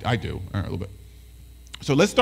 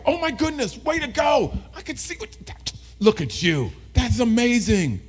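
high, gushing excitement for a student; hyped-up praise; 7 semitones higher than usual. Acted. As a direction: celebrate like a daytime DJ. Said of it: "Kids wanna see adults get hyped up".

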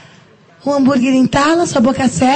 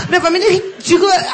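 exasperated shout. Acted. Rant repeated, shouted.

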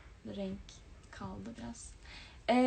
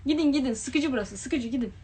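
mock shooing; 4 semitones higher, 9 dB louder than usual. Shooing viewers away jokingly.

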